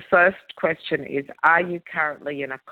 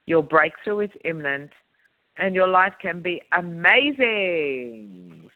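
signature sign-off. Acted. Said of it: "signature close".

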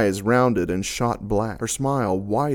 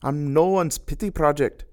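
jeering; 7 semitones higher than usual. A narrator's reading. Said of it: "she jeered".

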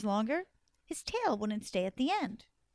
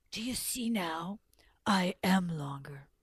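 slow, breath-heavy snake boast; straining python; 4 semitones lower than usual. Acted. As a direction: push the words out slowly while stretching.

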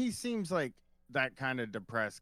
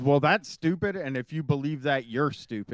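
louder, blunt put-down; mock scolding; 6 dB louder than usual. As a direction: scold him loudly. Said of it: "he says".

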